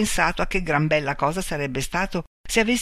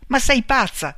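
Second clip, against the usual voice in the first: high, louder outcry; alarmed shout; 8 semitones higher, 5 dB louder than usual. A narrator's reading. Man faces Marta's pistol, crying out. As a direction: cry out in alarm. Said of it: "gridò lui".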